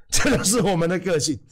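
saying it through a laugh; laughing at own joke while speaking. Real, not acted. Repeat with a laugh.

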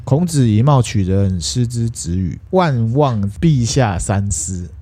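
measured classical recitation, slowing at the end; slow recited plea. Acted. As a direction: plead slowly in classical phrases. 韩愈跪谏，诵读文言. (缓缓诵读谏言)

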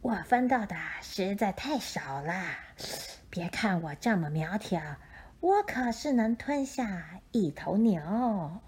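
whispered, sly snake voice; hissing snake. Acted. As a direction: hiss it out like a snake. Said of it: "蛇说".

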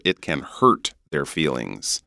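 North American "hurt" with R sounded; North American accent. Shown as a demonstration. Teacher giving the second sentence, North American accent. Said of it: "the first sentence you say is in British".

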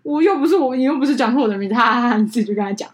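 retold bride, laughing and high; the bride shrugs off the apology, laughing. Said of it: "一个就说".

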